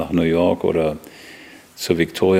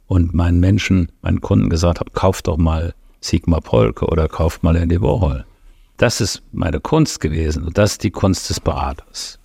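low quality stream. Real, not acted. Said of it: "fettes Sorry für die Tonqualität".

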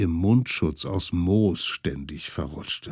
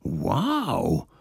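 amazed wow. Acted. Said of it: "staunten die kleinen Steppenhüter".

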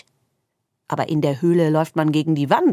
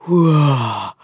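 darkness huffing; 7 dB louder than usual. A narrator's reading. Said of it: "noch ein bisschen leiser".

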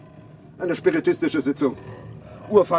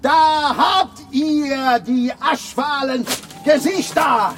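indignant outburst; 8 semitones higher than usual. Acted. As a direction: rage theatrically at everyone. Empörter Ausbruch vor der Gruppe. (empörter, pathetischer Ausbruch vor der Kolonie, hoch und laut)

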